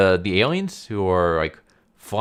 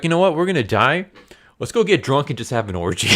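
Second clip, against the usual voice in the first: higher and louder, gleeful party call; rowdy reckless cheer; 7 semitones higher, 4 dB louder, faster than usual. Retold or imitated. Scientists decide to party before dying: loud, high, gleeful. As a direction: whoop it up like doomed guys heading to an orgy.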